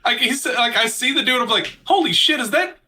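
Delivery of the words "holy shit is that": high, slow, laughing disbelief; stunned disbelief. Retold or imitated. Host reenacts realizing the actor was Eugene Levy, laughing disbelief. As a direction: replay the jaw-drop moment, much higher and laughing. Retells own shock at recognizing Levy.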